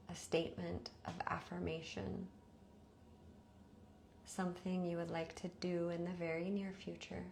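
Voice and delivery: measured meditation voice with long pauses; guided meditation. Acted. Teacher leading listeners into rest before sleep, guided meditation. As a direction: guide them evenly, leaving space after each instruction.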